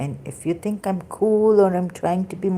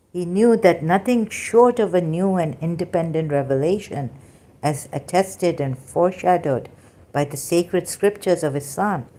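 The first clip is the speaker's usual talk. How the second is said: robotic reading voice. Acted. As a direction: read it like a robot. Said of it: "if I don't read like a robot".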